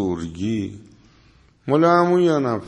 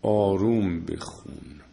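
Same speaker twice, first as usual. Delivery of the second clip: softly, a touch lower, as if reciting gently; soft reading; 6 semitones lower, 6 dB quieter than usual. Shown as a demonstration. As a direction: drop the voice to a gentle murmur. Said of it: "قرآن مجید میگه آروم حرف بزن".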